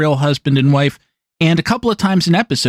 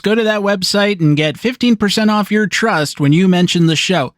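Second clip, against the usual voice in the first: higher-pitched mock live read; phony ad pitchman; 5 semitones higher than usual. Shown as a demonstration. Podcaster mocks other podcasts' live reads, phony pitchman. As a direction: push the offer like a phony pitchman. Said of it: "not supposed to read it like that".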